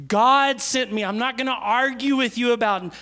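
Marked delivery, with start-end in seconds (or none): 0.1-1.0 louder firm repeat. Shown as a demonstration. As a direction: punch "God" louder.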